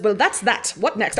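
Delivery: lightly put-on English accent for Lucifer; a half-hearted British Lucifer; offhand British accent, barely there; terrible accent. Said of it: "that was a terrible accent".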